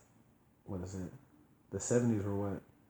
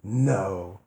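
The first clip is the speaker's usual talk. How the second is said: deadpan sarcastic no; mock denial; 2 semitones lower, 3 dB louder than usual. Real, not acted. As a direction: deny it with dry sarcasm. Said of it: "I missed the sarcasm there".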